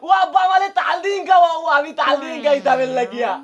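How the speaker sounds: put-on childish crying plea to father; whiny, half-crying begging; tearful whining. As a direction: wail it like a pestering child. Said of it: "এই, এই, কান্দিস না রে পুত".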